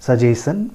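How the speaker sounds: सजेशन without the T, su-JAY-sun; common mispronunciation. Shown as a demonstration. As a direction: say सजेशन as su-JAY-shun, dropping the T. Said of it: "that is not the correct pronunciation". (सजेशन का आम गलत उच्चारण, बिना ट के)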